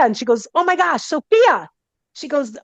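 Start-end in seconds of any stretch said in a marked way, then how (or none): 0.5-1.7 high-pitched excited astonishment; retold amazed recognition. Client hearing a familiar name from healer, astonished. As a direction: exclaim it higher, as if astonished.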